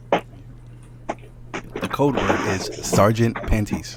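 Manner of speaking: slow secret agent voice. Pretend. Mock secret agent line.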